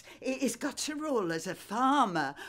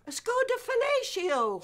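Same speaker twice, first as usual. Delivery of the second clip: emphatic repeat; 12 semitones higher than usual. Real, not acted. Gran repeats the car name.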